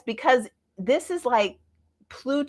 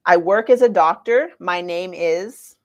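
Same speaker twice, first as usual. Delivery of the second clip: a mock self-introduction, said louder and proudly; 6 dB louder than usual. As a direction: announce your job with pride. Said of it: "but he had it".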